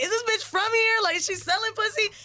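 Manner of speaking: high mock voice of a puzzled local guy; imagined guy's thought. Guy at the club wondering about her, high and mocking. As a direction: pitch it way up, scandalised. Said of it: "I think he was like".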